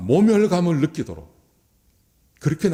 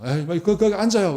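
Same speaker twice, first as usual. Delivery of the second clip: careless, grudging host; 8 semitones higher than usual. Acted. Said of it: "아무렇게나 그냥 대접을 해버린다는".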